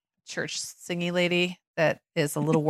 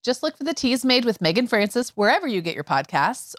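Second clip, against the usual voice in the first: scripted closing plug; podcast promo read; 3 semitones higher than usual. Acted. Host telling listeners where to find podcast, promo read. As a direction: direct listeners to the show.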